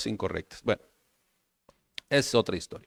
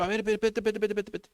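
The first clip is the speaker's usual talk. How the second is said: high, quick babble imitating Moses; comic hurried muttering; 7 semitones higher, 3 dB quieter, much faster than usual. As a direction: rattle the words off playfully under your voice. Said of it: "Así, así dijo Moisés". (imitación cómica, atropellada y aguda)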